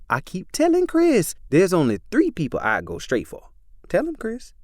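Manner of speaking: put-on high, bubbly young woman's voice; Becky pressing Chris, high and giddy; giddy fangirl Becky. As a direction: gush like a starstruck fan.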